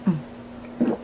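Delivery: noisy tea slurp. Real, not acted. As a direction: slurp your tea audibly. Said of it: "Excuse my slurping noise".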